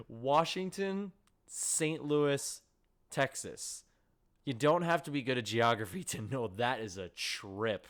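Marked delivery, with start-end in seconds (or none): 0.1-3.8 incredulous list. Real, not acted. Listing the long road trip.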